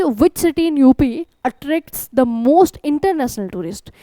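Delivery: very slow, word by word, reading the question aloud. Shown as a demonstration. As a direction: spell the question out slowly for students. (धीरे-धीरे प्रश्न पढ़ते हुए)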